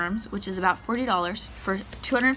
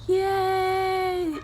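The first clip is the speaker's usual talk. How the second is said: excited cheer; 9 semitones higher, 3 dB louder than usual. Real, not acted. Cheering live worms.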